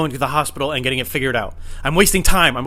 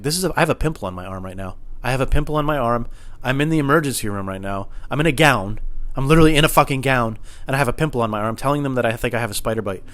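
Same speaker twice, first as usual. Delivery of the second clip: mock deflated, drained of adrenaline; deflated realization; 2 semitones lower than usual. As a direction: let the panic drain out into sober realization. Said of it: "left my body".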